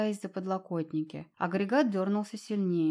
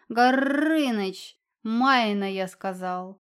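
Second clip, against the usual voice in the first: commanding yell; 6 dB louder, much slower than usual. A narrator's reading. Cat commanding the dragon.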